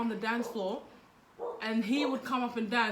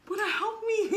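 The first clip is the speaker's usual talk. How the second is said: laughing call for help; 8 semitones higher than usual. Retold or imitated. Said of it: "I was like".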